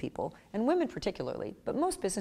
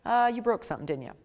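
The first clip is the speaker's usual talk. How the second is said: a hint of wary, teasing suspicion, higher; suspicious parent; 4 semitones higher than usual. Parent to a flattering child, mock suspicious. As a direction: squint and accuse lightly. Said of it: "And you're like".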